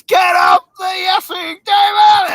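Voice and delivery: top-of-the-lungs Irish yell; Irish shout. Retold or imitated. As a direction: bellow it in an Irish accent. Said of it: "She's top of her voice".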